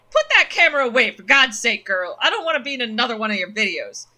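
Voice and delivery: put-on loud, pained old man snapping at girl; loud gruff dad voice; gruff father Duke. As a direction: bark it out, hurting and protective.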